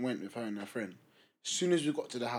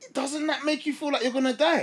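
incredulous question; 12 semitones higher, 4 dB louder than usual. Retold or imitated. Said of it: "And I was like".

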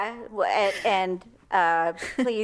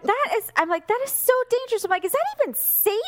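panicked self; 12 semitones higher, faster than usual. Retold or imitated.

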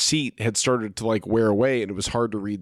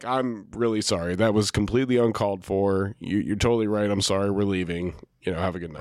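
low, subdued sincere apology; retold apology; 5 semitones lower than usual. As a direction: back down contritely, voice sinking.

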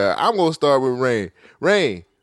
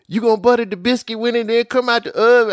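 put-on Southern accent; 7 semitones higher, 4 dB louder, faster than usual. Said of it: "I hate it when she was to say".

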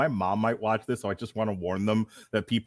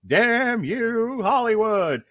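ringmaster; 4 dB louder than usual. Acted. Ringmaster style podcast intro.

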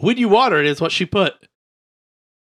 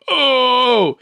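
gasp; 8 semitones higher, 4 dB louder than usual. Retold or imitated. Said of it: "I'm eating and I go".

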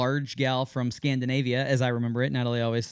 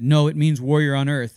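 louder, mildly emphatic retold correction; firm correction; 7 dB louder than usual. Nurse corrects father on name's meaning, mildly firm correction. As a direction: lightly imitate someone setting another straight.

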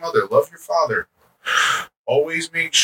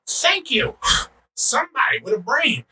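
relieved thanks; 11 semitones higher than usual. Retold or imitated. Relieved reply to dad.

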